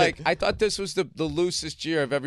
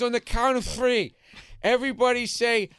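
imitating Rich Voss; 8 semitones higher, slower than usual. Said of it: "He goes like this".

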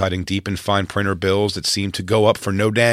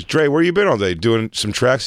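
buddy voice; 4 semitones higher, 3 dB louder than usual. Retold or imitated. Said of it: "He goes".

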